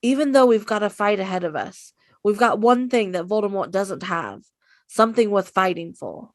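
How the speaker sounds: a light take on Harry's rallying line; rally them, lightly voiced; Harry impression. Co-host tries Harry's speech, lightly voiced rousing. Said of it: "why don't you go ahead and try yours".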